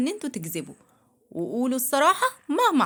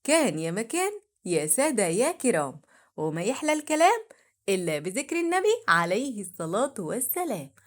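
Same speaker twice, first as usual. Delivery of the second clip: traditional tale opening, sing-song; arabic cafe storyteller; 3 semitones lower than usual. A narrator's reading. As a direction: open like an old storyteller.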